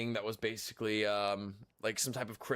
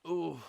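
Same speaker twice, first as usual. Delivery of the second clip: stretching groan; 5 semitones higher than usual. Real, not acted. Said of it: "I'm just, like, stretching my neck".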